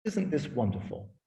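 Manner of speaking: mock-gracious host gloating over the feast; patronizing. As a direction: talk down to the guests as if they're lucky. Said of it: "rather patronizingly".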